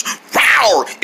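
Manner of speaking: playful single rawr; pretend tiger roar. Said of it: "I love tigers".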